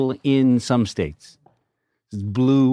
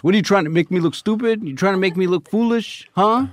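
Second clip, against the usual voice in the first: indignant Willie; 8 semitones higher than usual. Retold or imitated. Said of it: "He goes".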